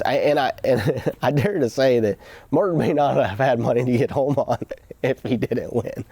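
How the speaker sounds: chuckling through the words; laughing while telling. Real, not acted. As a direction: laugh as you admit it. Laughing at Martin's near-broke win.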